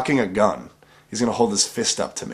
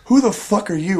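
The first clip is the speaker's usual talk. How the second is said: high, loud imitation of the girl's shout; mock angry yell; 10 semitones higher, 5 dB louder than usual. Imitating the girl yelling at Mike, loud high mock shout. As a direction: shriek it at him like she's just been knocked down. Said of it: "She goes".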